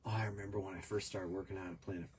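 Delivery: talking through the hiccups; hiccupping between words. Real, not acted. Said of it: "got the hiccups".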